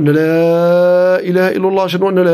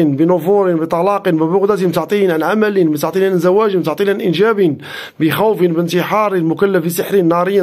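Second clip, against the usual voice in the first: rhythmic, chant-like recitation with repeated phrases; steady incantatory reading, lingering on the repeats; ruqyah recitation. Acted. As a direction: recite over the afflicted, commanding the spirit to leave. Live ruqyah recitation after intro.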